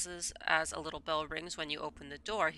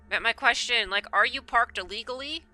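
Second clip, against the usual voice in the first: excited rant; 4 semitones higher, 5 dB louder than usual. Real, not acted. Ranting about NYC parking.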